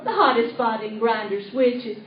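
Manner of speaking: put-on a light country-girl comic voice, chatty and giggly; Minnie Pearl impression. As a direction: play it like a folksy hillbilly storyteller charming the audience. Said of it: "going to do a Minnie Pearl impersonation".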